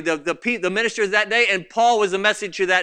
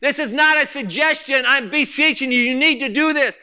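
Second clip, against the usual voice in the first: raised, insistent appeal; earnest pleading; 3 semitones higher than usual. Retold or imitated. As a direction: urge them as if begging. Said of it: "beseech you".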